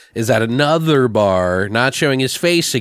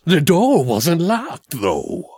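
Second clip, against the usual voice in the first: slow, higher, lightly voiced killer; imitating the killer's deadpan; 5 semitones higher, much slower than usual. Mocking how the killer talks, slow and deadpan. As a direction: drag it out like a flat movie killer. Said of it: "this is how he talks when I say this".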